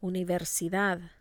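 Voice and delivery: "Universidad" with the weight on DAD; stress on last syllable. Shown as a demonstration. Teacher models the rule for repeating, last-syllable stress. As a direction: lean on the final syllable of "Universidad". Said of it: "you must stress the last syllable".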